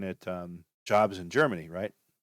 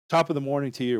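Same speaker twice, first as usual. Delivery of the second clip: slightly raised, amateur British accent; attempted British accent; 4 semitones higher, faster than usual. Shown as a demonstration. Demonstrating an accent he can't do, attempted British accent. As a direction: try a British greeting, not very convincingly. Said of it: "I can't do the accent".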